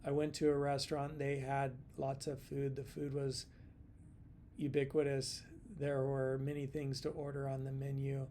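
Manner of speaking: flat, even monotone read with no emphasis. Shown as a demonstration. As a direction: drone it out flat, stressing nothing. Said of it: "So here's the monotone voice".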